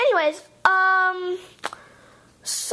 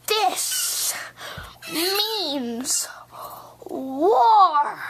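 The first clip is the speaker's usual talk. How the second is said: dramatic whisper; much slower than usual. Acted. Dramatic threat.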